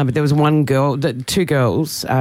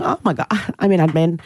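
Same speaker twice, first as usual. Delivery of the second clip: mock ditzy blonde; 3 semitones higher than usual. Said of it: "play the blonde kind of card".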